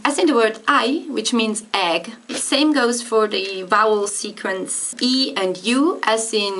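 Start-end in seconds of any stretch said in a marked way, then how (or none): 0.1-1.1 eye said like the English eye. Shown as a demonstration. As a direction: ei as I, raised. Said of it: "you're gonna say I".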